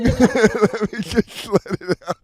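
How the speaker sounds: loud, laughing, slow pleading; excited pleading. Pretend. Begging to joke, laughing.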